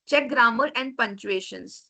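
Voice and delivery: slow, deliberate reading; reading slide point. Shown as a demonstration. Teacher reading a proofreading tip off the slide, slow. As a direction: read each word of the point out slowly.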